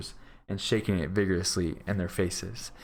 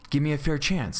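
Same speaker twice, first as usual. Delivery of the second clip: higher-pitched, heated demand; violent protest; 8 semitones higher than usual. A narrator's reading. Beggar challenges his three captors, violent protest. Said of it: "said the beggar violently".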